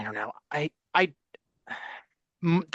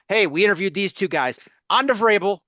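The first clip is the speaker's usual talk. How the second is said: quick, higher-pitched mock team announcement; 5 semitones higher, 4 dB louder, faster than usual. Host mimicking the Patriots rushing through token interviews, mock announcement. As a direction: toss it off brightly and fast, imitating the team.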